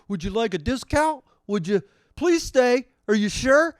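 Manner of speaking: high, loud mock pleading; needy app pleading at high pitch; begging. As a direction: beg the customer to stay, hammed-up. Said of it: "they beg you to".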